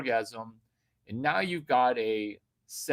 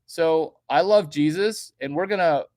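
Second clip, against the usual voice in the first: rally the crowd to prayer; preacher; 3 semitones higher, 8 dB louder than usual. Acted. Opening a prayer for the audience, hammed-up preacher.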